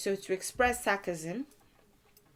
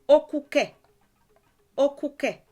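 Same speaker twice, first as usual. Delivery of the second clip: shocked exclamation; 6 semitones higher, 8 dB louder than usual. Shown as a demonstration.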